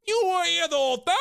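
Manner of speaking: high, loud, overblown question; high mock outcry. Heroine questioning her captor, high loud hammed-up outcry. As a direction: blurt it out way up high. First take, before the whisper tag.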